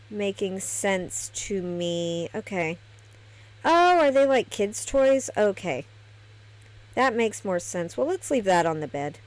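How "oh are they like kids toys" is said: sudden higher, louder "oh" of discovery; surprised realization. Real, not acted. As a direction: it just clicked, blurt it out. Sudden realization while unpacking.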